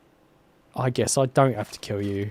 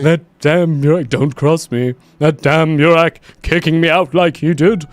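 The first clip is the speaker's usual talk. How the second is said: mimicking angry exile; 4 semitones higher, 6 dB louder than usual. Echoing NPC angry vow.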